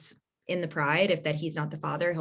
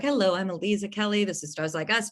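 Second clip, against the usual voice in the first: podcast intro voice. Shown as a demonstration. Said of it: "my full intro where I'm like".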